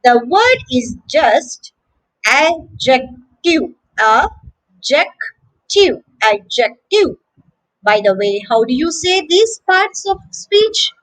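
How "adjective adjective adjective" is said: A-jec-tive, slowly by syllables then whole; slow, separated "adjective", no D sound; silent D. Shown as a demonstration. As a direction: sound out "adjective" as AJ-ek-tiv without the D. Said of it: "the letter D is actually silent".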